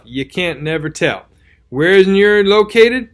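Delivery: rustic old soldier, lightly voiced; tattered soldier voice. Tattered soldier's tale continues.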